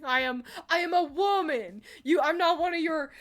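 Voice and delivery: lightly voiced haughty woman from the animation; a hint of an offended lady brushing him off; quoting Spy's lady. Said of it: "that one Team Fortress two animation".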